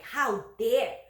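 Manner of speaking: loud, high, furious rant of a rich neighbor; hammed-up yelling neighbor; angry neighbor shouting. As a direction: rage at the movers like an entitled big guy. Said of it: "this guy started shouting".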